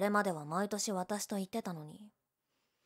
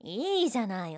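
ordinary talk

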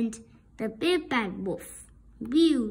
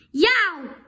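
higher, louder yelp of pain; mock yelp; 4 semitones higher, 5 dB louder than usual. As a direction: yelp as if scalded. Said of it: "he shouted".

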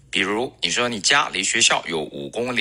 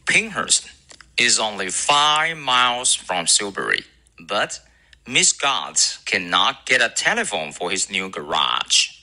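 recitation; slower than usual. Shown as a demonstration. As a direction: recite slowly for students to memorise. Recites the model sentence.

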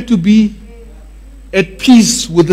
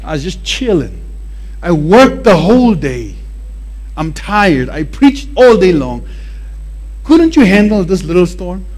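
lightly voiced, sleepy and put-upon; a mild mock complaint after a nap; tired Jesus. Jesus woken by disciples, mildly complaining. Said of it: "He's like".

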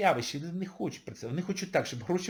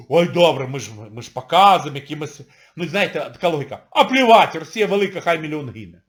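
mock Russian public; 7 dB louder, faster than usual. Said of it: "народ говорить".

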